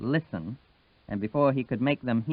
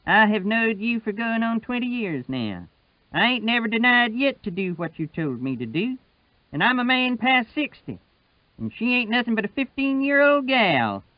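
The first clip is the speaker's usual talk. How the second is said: put-on higher, steady voice of old Wash; Wash's voice; 10 semitones higher than usual. Old Wash standing up to Sutphen, patient and higher. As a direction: keep it patient and steady, pitched up. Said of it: "Wash's voice was just flat and quiet".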